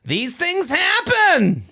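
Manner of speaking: a Jewish grandfather reassuring, shouted and slow; Jewish accent. Retold or imitated. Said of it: "I can do it Jewish".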